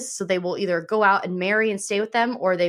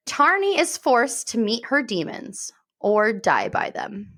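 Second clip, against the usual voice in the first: measured, dramatic description reading; lightly dramatic narration, phrases falling at the ends; book blurb read; 2 semitones higher, slower than usual. Acted. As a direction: read the blurb with hushed storyteller weight.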